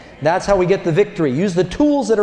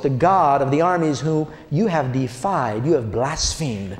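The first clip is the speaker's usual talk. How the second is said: lowered calm defiance; calm and bold; 4 semitones lower than usual. Retold or imitated. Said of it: "David said to the Philistine".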